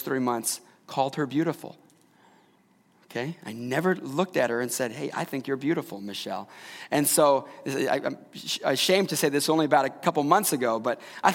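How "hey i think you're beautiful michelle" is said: lightly acted, quiet and low sweet nothing; tender compliment. Husband telling his wife she's beautiful, tender and hushed. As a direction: softly, voice lowering onto the name.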